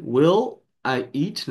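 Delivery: "Will I eat" stretched out very slowly, word by word; slowed down. Shown as a demonstration. Teacher slowing down for students, drawn out. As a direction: draw out "Will I eat" slowly so each sound is heard. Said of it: "pra juntar foneticamente".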